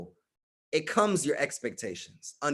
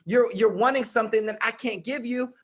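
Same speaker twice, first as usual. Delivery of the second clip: higher-pitched, mildly pleading role-play; acted frustrated plea; 5 semitones higher than usual. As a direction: act out a partner straining to be understood. Voices a frustrated partner explaining themselves.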